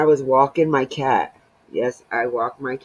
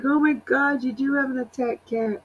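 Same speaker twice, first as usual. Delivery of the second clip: imitating friend; 9 semitones higher than usual. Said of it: "She's like".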